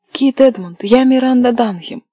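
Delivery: high, loud, insistent call; crying out. A narrator's reading. Miranda calling to the officer through the gate, crying out. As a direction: make him hear who you are. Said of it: "закричала она".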